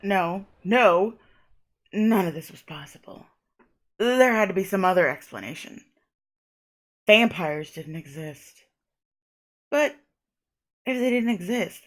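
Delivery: measured first-person novel reading; story narration. A narrator's reading. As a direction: read it aloud like a novel. Reads the game's narration.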